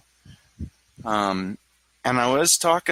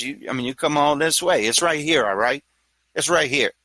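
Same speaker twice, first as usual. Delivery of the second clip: lightly put-on New York accent, pitched up; 3 semitones higher than usual. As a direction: goad yourself past fear in New York tones. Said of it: "I do it in a New York accent".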